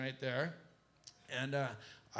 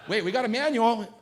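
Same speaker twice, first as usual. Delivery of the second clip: loud, higher exclamation; mock panic; 9 semitones higher, 14 dB louder than usual. Flustered pilot shouting at the manual. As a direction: yell as if the manual just turned up.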